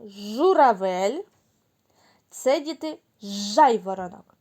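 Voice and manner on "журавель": Журавель drawn out slowly, buzzing Ж; slow Журавель with a long Ж; stretched word. Shown as a demonstration. Teacher slowly names pictures for children. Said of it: "Послухайте".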